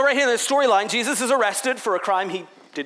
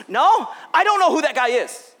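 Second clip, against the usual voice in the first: loud denial; 4 semitones higher, 5 dB louder than usual. Retold or imitated. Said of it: "people look at Peter like".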